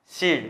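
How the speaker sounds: "sil" with the tongue lifted on the L; curled-tongue final L. Shown as a demonstration. Teacher repeats the Korean example for students, curled-tongue L. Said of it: "Các em sẽ uốn lưỡi lên nhá".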